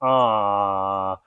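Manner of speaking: cooing at a cute bear; mock cooing. Guest greeting a bear, playful mock cooing. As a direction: coo like it's a puppy. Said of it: "really muted, relaxed, chilled response".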